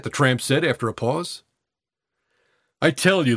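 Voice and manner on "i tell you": hoarse and pressing. Acted. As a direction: rasp it out urgently. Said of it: "the boy said hoarsely".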